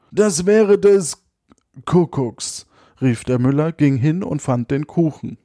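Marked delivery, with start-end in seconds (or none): 0.1-2.7 astonished cry. Acted. Miller finds the cake under the bed, astonished drawn-out cry. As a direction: let the miller's amazement burst out on the fourth find.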